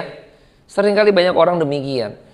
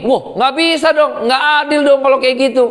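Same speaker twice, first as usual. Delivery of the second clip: higher, indignant complaint, speeding up at the end; mock outraged protest; 5 semitones higher than usual. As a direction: act out the crowd crying foul, higher. Mock protest at unfair verdict.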